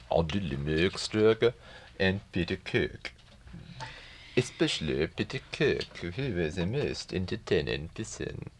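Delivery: lightly held Swedish director voice; Ingmar Bergman Swedish accent. Retold or imitated. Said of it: "This is Ingmar Bergman speaking".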